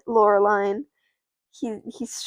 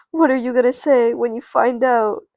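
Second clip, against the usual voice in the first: louder, mildly dramatic challenge; confronting; 6 dB louder than usual. Acted. Loreline to doubting friends before confessing, confronting. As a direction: throw the question at them.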